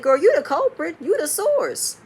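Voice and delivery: loud, high-pitched mock accusing; retold indignant outburst; heated accusation. Acted quote of an accusation.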